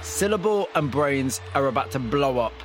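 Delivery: measured, scripted presenter read over music; polished broadcast storytelling voice; radio documentary narration. Acted. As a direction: set up the story like a radio feature host.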